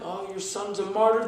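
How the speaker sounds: high shouted mock cheer of a grieving mother; mock mother celebrating. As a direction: ham up the celebrating mother, yelling to the sky. Mocking Palestinian mothers celebrating martyrs.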